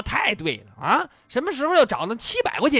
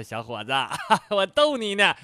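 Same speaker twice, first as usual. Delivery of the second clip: teasing line with a chuckle; laughing. Acted. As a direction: chuckle as if owning up to a prank. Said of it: "突然笑着站了起来". (笑着逗人)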